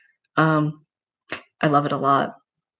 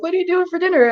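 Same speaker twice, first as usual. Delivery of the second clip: own asking voice; 13 semitones higher, much faster than usual. Retold or imitated. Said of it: "I'm like".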